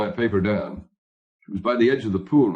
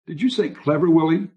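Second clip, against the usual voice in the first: higher voice of a questioning wife; puzzled wife; 7 semitones higher than usual. A narrator's reading. Wife questions her husband on the phone, high and puzzled. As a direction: query it in a high voice, lifting at the end.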